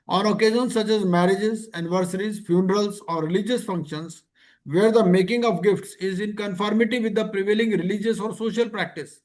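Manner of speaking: reading the rule word by word, very slowly; slow regulation reading. Acted. Teacher reading gift rules to class, slow and deliberate. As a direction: dictate the regulation so students can follow.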